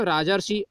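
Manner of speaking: "राजर्षि" with "अर" sounded in the middle; demonstrated pronunciation. Shown as a demonstration. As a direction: pronounce "राजर्षि" showing the "अर" after "राज". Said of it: "हम उच्चारण करेंगे तो".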